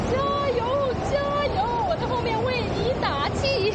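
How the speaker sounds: high-pitched rallying cheer; root for a climbing friend with real spirit. Real, not acted. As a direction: call out encouragement from behind, voice lifted.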